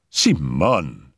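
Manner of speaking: low, falling note of reproach; reproachful. Acted. Raoul reacts to her horror, reproachful. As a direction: chide with just the name. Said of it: "There was reproach in his voice".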